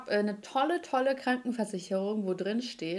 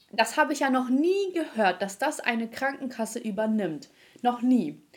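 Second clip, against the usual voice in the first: ungläubige Sprechstundenhilfe; 2 semitones higher than usual. Retold or imitated. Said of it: "kommt sie irgendwann ... wieder und meinte so".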